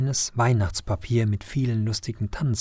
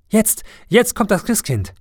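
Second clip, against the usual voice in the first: higher, louder, excited cry; calling out loud; 10 semitones higher, 5 dB louder than usual. A narrator's reading. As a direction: shout with joy toward the door. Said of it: "ruft Hans laut".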